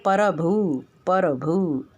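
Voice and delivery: परभु with an extra a between p and r; mock the mistake: परभु broken apart; wrong prabhu. Shown as a demonstration. Teacher to students, imitating their error: परभु. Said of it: "गलत है".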